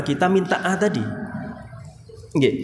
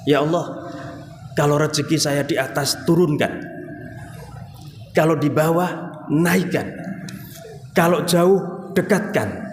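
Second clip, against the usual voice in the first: demanding prayer. Retold or imitated. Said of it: "iki ndonga apa meksa sih".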